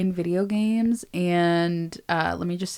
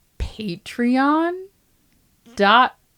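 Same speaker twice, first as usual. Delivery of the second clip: high, loud giggling through the words; 6 semitones higher, 5 dB louder than usual. Trying to read out the patreon address again: laughing while talking. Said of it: "What noise are you making right now?".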